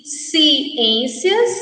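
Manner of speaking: "ciências" broken after the first syllable; split syllables. Shown as a demonstration. Teacher showing the syllable ci, word split in parts.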